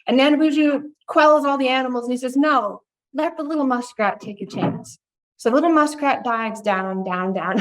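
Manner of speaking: unhurried oral storyteller telling a folktale; gentle campfire storytelling voice; storytelling narration. Acted. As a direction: draw the listeners into an old legend. Tells Ojibwe folktale to audience.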